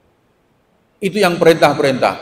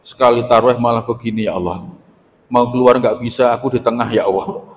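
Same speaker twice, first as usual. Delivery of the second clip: mock complaining sigh; 5 semitones lower than usual. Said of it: "Mengeluhnya luar biasa".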